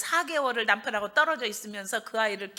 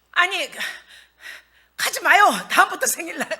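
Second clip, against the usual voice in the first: heated, raised protest to the daughter; angry retort; 5 semitones higher, 7 dB louder than usual. Retold or imitated. Mother angrily telling the daughter not to go. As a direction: snap back, higher and louder, fed up. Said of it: "나 너무 열나가지고".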